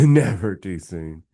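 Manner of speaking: slow, laughing repeat of never too soon. Real, not acted. Repeating the dark-humor line to his co-host, laughing. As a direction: chuckle through the words never too soon.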